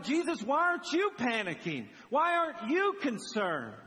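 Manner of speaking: high, urgent pleading disciples; acted panic. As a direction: demand an answer as if panicking. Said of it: "And they're panicking".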